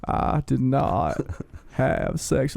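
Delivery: Bill Clinton impression. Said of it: "That is a spot on, Bill Clinton".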